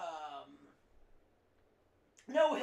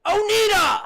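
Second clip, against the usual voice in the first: shouting; 10 semitones higher, 13 dB louder than usual. Real, not acted. Yelling at device.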